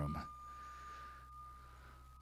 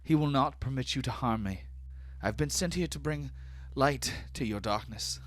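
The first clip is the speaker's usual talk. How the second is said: defiant elf priestess; 10 semitones higher than usual. Acted. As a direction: lift the voice high in faith against the mob. Elf priestess defies the captors.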